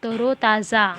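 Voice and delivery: तरोताज़ा as a clear reading model; model pronunciation. Shown as a demonstration. Teacher has pupils say it along with her, careful model pronunciation. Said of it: "जैसे मैं बोलती जाऊँगी उसी तरह से".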